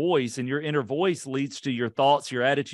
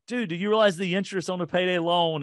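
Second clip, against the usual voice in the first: retold shocked pastor, pitched higher; a friend's disbelief, half played; shocked exclamation; 6 semitones higher than usual. Pastor shocked by payday loan.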